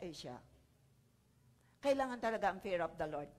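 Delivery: ordinary delivery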